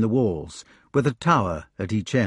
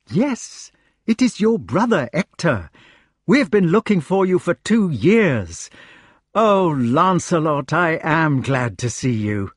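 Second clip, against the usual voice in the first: high-pitched, excited questioning; excited knight; 6 semitones higher, 3 dB louder than usual. A narrator's reading. Knight questioning friend feared dead, excited. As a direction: pour out questions to a long-lost friend.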